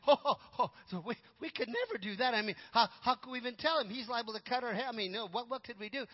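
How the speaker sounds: flustered, stumbling mock protest; acted-out jumpy alarm, tripping over starts. Startled advisors balk at replacing the king, mock alarm. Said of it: "And they jumped".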